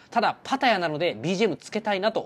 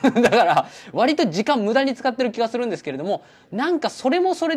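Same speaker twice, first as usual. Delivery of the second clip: laughing; 7 semitones higher, 3 dB louder than usual. Real, not acted. Laughing at own wasted time.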